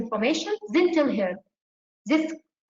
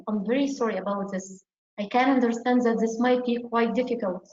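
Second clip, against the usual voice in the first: empathetic apology. Shown as a demonstration. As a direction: say it like you truly mean it. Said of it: "And show empathy".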